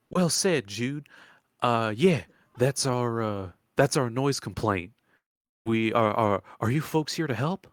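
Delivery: lightly voiced folksy old woman; old swamp woman, hopeful. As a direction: ask for help with a country lilt.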